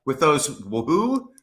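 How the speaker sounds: laughing, pitch jumping up; laughing disbelief. Real, not acted. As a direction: giggle through the question.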